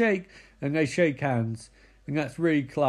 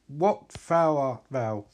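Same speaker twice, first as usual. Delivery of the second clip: mock archaic lament; 4 semitones lower, slower than usual. Mock archaic cry to Barry.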